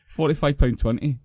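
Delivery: repeats the price through a laugh. Real, not acted. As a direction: laugh out "Forty-five pound twenty" in disbelief.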